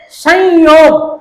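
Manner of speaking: slow "संयोग" with a drawn-out nasal first syllable; pronunciation demo. Shown as a demonstration. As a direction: sound out "संयोग" in two parts, san-yog. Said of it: "इसका उच्चारण करते हैं". ("संयोग" को सं-योग, धीरे नाक से)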